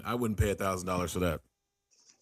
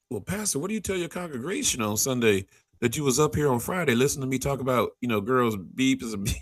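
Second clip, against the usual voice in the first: higher-pitched retold crowd-work voice; comedian ribbing a pastor; 5 semitones higher than usual. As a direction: lightly imitate a comic questioning a pastor.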